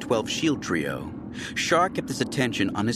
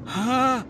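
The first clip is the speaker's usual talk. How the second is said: grunt; 14 semitones higher than usual. A narrator's reading. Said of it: "Shar grunted".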